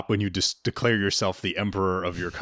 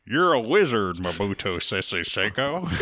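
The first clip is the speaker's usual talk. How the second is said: a weak attempt at a Scottish accent, slowing on the name; half-hearted Scottish accent that barely lands; failed Scottish accent; slower than usual. Telling Mobutu he is a wizard, in a failed Scottish accent. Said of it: "I can't do a Scottish accent".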